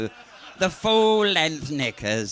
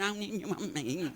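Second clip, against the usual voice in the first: put-on old lady voice; 4 semitones higher, 7 dB quieter than usual. Old lady answers officer, laughing.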